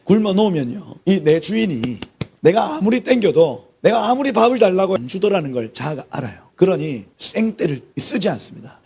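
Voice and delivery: ordinary talk, nothing marked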